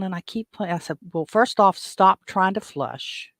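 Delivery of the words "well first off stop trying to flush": louder, slow, firm order; firm command. Retold or imitated. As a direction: take charge and tell her to stop. Telling her firmly to stop.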